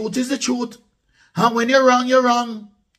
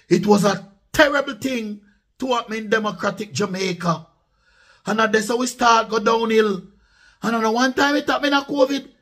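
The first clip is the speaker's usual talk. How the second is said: usual speaking voice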